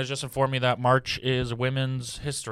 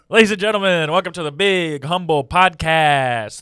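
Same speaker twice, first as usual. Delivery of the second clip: podcast host announcer; 4 semitones higher, 6 dB louder than usual. Acted. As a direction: boom it like an announcer.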